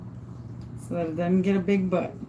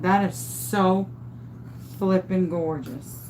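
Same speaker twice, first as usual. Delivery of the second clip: slow admiring; 2 semitones lower, 4 dB quieter, slower than usual. Real, not acted. Admiring the finished piece.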